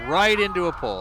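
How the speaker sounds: surprised. Real, not acted. Car crashes into pole.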